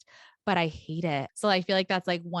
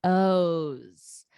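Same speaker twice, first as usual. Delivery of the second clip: whisper. Acted. Teasing the final guest.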